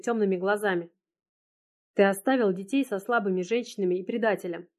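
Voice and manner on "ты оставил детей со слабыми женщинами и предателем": ordinary delivery, nothing marked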